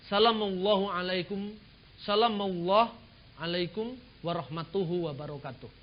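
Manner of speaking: "Salamallahu alaikum" recited with a lift on salamallahu; reversed greeting. Shown as a demonstration. Speaker demonstrates the sheikh's reversed greeting, recited. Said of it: "salamnya begini, dibalik sedikit".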